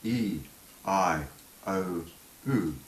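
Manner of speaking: each vowel said singly, drawn out and falling; vowel demonstration. Shown as a demonstration. Teacher showing mouth shapes for vowels, vowel demonstration. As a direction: recite long vowels one at a time. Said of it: "if you watch the mouth".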